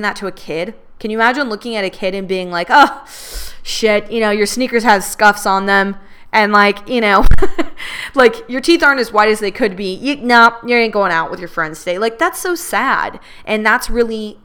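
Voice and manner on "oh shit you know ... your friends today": mock inner critic. Mocking her own harsh inner critic.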